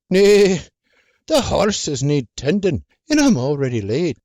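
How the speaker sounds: put-on gruff old man brushing her off; grumpy old farmer. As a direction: wave her away grumpily.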